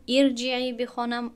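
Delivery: ارجعی read with a short i on the first vowel, irjiee. Shown as a demonstration. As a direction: start ارجعی with an i sound. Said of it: "شاید شما گمان کنید که من این را".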